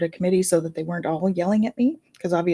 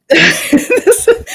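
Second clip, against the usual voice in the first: real laugh bursting out; loud high laughing fit; 10 dB louder than usual. Real, not acted. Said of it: "Your head pretty good".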